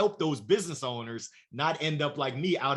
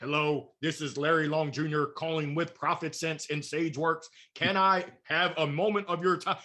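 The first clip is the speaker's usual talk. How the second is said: robot voice. Retold or imitated. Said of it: "You sound like a robot".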